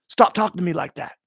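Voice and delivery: high, loud, fast mock yell; retold scream. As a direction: imitate a fighter snapping in a scream. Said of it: "He screamed at the guy".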